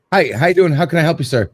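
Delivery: lightly imitated restaurant server greeting; polite server-to-customer voice, lightly acted; customer-service politeness. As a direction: greet the officer like a customer, a touch brisk. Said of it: "like, I'm talking to a customer".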